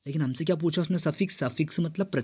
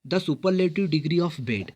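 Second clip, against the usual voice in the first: slow reading; 2 semitones higher, much slower than usual. Shown as a demonstration. Reads exam question slowly.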